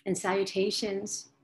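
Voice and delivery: dreamy spoken meditation; guided meditation. Acted.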